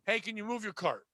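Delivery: soft, understated imitation of a driver; mild, unbothered request. Bus driver to yelling passengers, imitated mild request. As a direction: play the driver low-key, no yelling at all. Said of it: "I thought he was gonna yell at them, and he just said".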